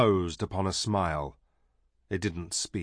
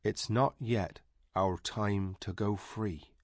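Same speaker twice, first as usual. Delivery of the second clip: soft voice; 6 dB quieter than usual. Acted. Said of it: "said Sepel in his soft voice".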